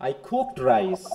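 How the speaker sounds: "cooked" stressed above "I" and "rice". Shown as a demonstration. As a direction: lean firmly on "cooked". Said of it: "হ্যাঁ, কুকের উপর".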